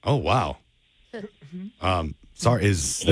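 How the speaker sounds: hesitant, halting phone opening; feigned fluster. Pretend. Prank caller thrown by Greg's voice, feigning fluster. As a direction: stumble as if caught off guard. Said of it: "sorry if I sounded flustered at the start there".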